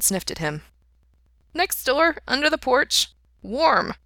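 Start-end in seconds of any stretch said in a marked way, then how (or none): 1.5-3.9 high-pitched talking dog; little dog voice. A narrator's reading. Dog Tintin answering his owner, high little voice. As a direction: pipe it up high like a small dog.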